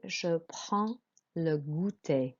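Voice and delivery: "je prends le goûter" slowly, D and S silent; careful French, "prends" ending on a nasal vowel; model French pronunciation. Shown as a demonstration. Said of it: "Écoutez et répétez".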